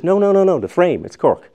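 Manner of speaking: no, no, no burst out high and loud, then the frame, it's Cork with frame hit hard; retelling Joyce insisting eagerly, stress on frame; excited correction. Retold or imitated. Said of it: "And he says".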